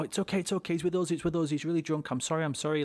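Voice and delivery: calm the angry man down fast; placating. Retold or imitated.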